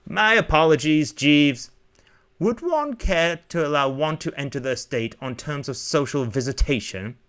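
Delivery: lightly put-on upper-class accent; mock blue-money accent. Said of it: "Brent mocked the blue money accents".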